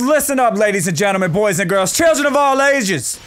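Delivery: lightly hammed-up fight announcer; playful showman's introduction; mock announcer. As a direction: hype up the crowd like a ring announcer. Hyping up the match like announcer.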